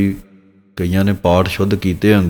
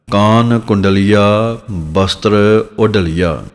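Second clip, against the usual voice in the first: slow recitation; much slower than usual. Shown as a demonstration. Teacher recites scripture line slowly.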